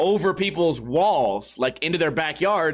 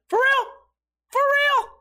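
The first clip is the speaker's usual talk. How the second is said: very high falsetto mock astonishment; mock disbelief. Drunk buddy hears about his winnings, imitated high-pitched disbelief.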